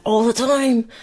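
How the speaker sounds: lilting mock customer-service voice; demonstrating an over-peppy work voice. Shown as a demonstration. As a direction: slip into a put-on perky lilt. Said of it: "I catch myself talking like that".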